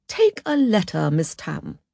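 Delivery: lightly voiced office boss; boss dictating. City boss to new shorthand typist, lightly voiced instruction. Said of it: "ushered into a city office and asked to".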